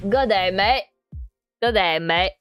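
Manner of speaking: lightly put-on Australian accent. Streamer testing whether they sound Australian, mock Australian accent. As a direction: try a mock Aussie greeting. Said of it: "said that my accent sounded Australian".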